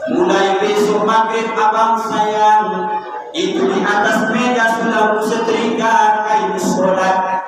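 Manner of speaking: slow, sing-song flattery; sweet flattering wife. Pretend. Wife gently flattering her husband toward the mosque. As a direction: croon the praise lovingly. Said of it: "dengan bahasa yang lembut".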